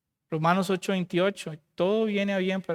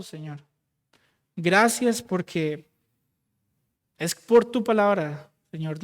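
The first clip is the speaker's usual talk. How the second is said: fervent prayer. Acted. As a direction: pray aloud for the congregation, pleading then hushed. Leads closing congregational prayer.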